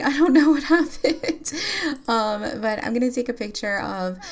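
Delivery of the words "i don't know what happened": laughing through the words; amused and baffled at once; laughing confusion. Real, not acted. Player laughing that she doesn't know what happened. Laughs at sim's sudden mood.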